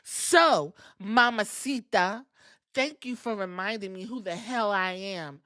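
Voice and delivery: lightly mocked wrestling promo, pausing before key words; imitating Nikki's promo. Nikki demanding a title match from Stephanie, mildly mock-dramatic. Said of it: "that's how she was saying it".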